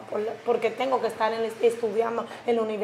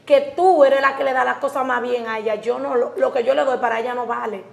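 louder, heated complaint to her sister; indignant protest; 6 dB louder than usual. Acted. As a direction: push back hard, voice raised. Sister argues against sister. (hermana se queja alzando la voz, indignada)

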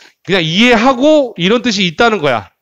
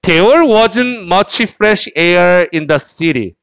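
slow, careful read-aloud for repetition; measured teacher's model sentence; much slower than usual. Shown as a demonstration. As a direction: read it slowly for students to follow. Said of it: "따라하세요".

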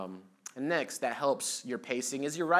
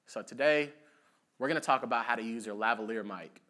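voiceover intro timed to a song in the head; on the beat. Shown as a demonstration. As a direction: open with a lifted word, then keep the tempo. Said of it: "I'll have that song playing in my head".

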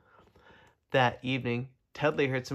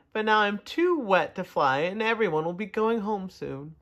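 firefly voice; 5 semitones higher than usual. Acted. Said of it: "said the firefly".

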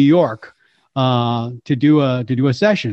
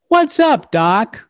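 high "What's" with cocky Bugs attitude; 7 semitones higher, slower than usual. Shown as a demonstration. Coaching the host: Bugs line with attitude. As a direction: say it with a smirk. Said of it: "have an attitude like".

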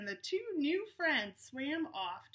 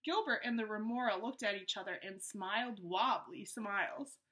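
story narration. A narrator's reading. Reads the story aloud.

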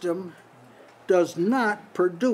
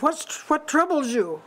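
much higher, airy angel asking Hagar; angel's voice; 8 semitones higher than usual. Acted. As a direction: lift way up as the angel calling Hagar. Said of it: "this is an angel talking".

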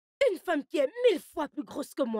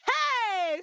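outraged shout; 8 semitones higher than usual. Acted. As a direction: burst out in shock. Mother's outburst over the marriage.

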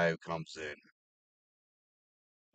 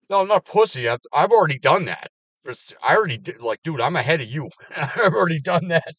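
much higher and louder indignant yell; angry yelling; 9 semitones higher, 12 dB louder than usual. Real, not acted. Retorting to coworkers calling him a pussy, loud. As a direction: yell back, offended.

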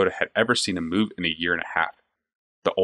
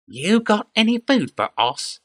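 goblin voice; 13 semitones higher, slower than usual. A narrator's reading. Goblin demands food.

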